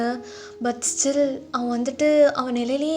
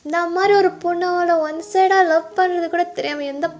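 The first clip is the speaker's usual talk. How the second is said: put-on drunken rambling; 5 dB louder than usual. Drunk lover raging to his friend about an unknown rival, hurt. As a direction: build from longing to jealous outrage. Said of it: "நீ குடிச்சிட்டு ரொம்ப பேசுறடா".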